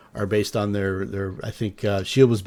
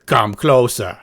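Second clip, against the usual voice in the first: big, booming call from the hut; 2 semitones higher, 8 dB louder than usual. Acted. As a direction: boom it out, commanding. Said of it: "a booming voice".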